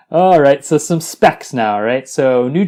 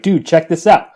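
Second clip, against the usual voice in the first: hyped-up angel; 4 semitones higher than usual. Acted. Acts out angel showing off the bride.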